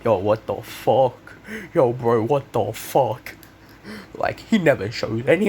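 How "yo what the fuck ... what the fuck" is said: stunned disbelief. Retold or imitated. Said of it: "everyone's going like".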